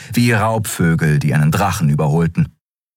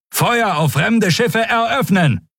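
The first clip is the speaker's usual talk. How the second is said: much higher, slow firing command; shouted order; slower than usual. A narrator's reading. Admiral commanding the gunners to fire, shouted.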